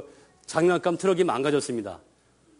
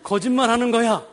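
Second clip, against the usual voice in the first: scolding dad; 4 semitones higher than usual. Retold or imitated. Father lecturing his son about lying, scolding, rising. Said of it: "어른들이 하는 말 있죠".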